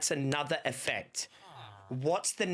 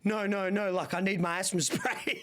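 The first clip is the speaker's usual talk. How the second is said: laughing; 2 semitones higher than usual. Retold or imitated. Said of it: "I'm gonna be like".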